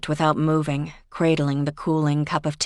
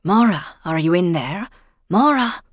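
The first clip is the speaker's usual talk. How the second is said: calling out; 3 semitones higher, 5 dB louder than usual. Acted. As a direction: call through a closed door. Ellen calling through the door.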